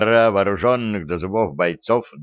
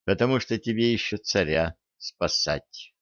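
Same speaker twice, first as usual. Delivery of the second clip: lifeless otherworldly voice, softer; hollow voice from beyond; energy being; 6 dB quieter than usual. Acted. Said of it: "безжизненным, потусторонним голосом".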